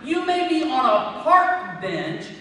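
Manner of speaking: rising, forceful sermon delivery; impassioned preaching. Real, not acted. Preacher urging the congregation to praise anywhere, impassioned. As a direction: preach it with building fervor.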